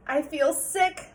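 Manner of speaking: put-on slow, weak child's voice; weakly. Sarah telling her father she feels ill, weak and slow. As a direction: say it faintly. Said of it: "said Sarah weakly".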